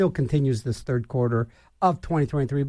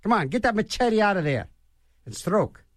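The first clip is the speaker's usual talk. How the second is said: mock rowing coach; 5 semitones higher than usual. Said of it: "people yell at 'em".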